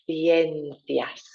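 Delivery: ciencias with the tongue out for each c, THIEN-thias; lisped c. Shown as a demonstration. Teacher repeating ciencias, tongue between teeth. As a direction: put the tongue out on both c's of ciencias. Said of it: "Tongue out each time".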